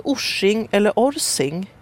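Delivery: "Orsing" offered in two differing pronunciations; alternative pronunciations. Shown as a demonstration. Host asks guest which is right, alternative pronunciations of "Orsing". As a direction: try "Orsing" one way, then another. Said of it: "säger man så?".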